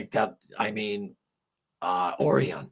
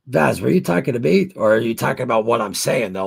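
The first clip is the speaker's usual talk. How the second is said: surprised; 5 semitones higher, 7 dB louder than usual. Real, not acted. Confused, asks Vaz directly.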